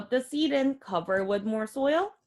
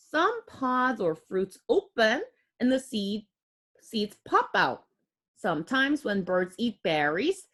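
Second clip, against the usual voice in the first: put-on clear, gentle read-aloud for kids; reading to children. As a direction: read the book aloud to little ones. Reads picture book to children.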